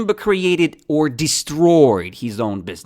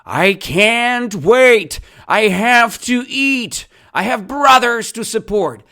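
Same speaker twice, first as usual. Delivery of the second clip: yelling; 8 semitones higher, 4 dB louder than usual. Acted. Teacher re-enacts the kangaroo's hungry plea for students, yelling. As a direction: call it out high and forcefully. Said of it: "And he yelled".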